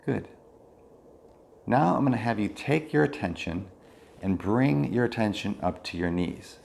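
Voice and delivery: calm body-scan guidance with long pauses; measured mindfulness-teacher voice, leaving space between phrases; guided meditation. Real, not acted. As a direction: guide attention through the body, unhurried.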